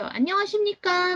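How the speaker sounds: bright, high call-centre voice on a sol note. Showing how call centers greet callers on the phone; high-tone call-center greeting. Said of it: "콜센터에서 소울톤으로 인사하는 거예요".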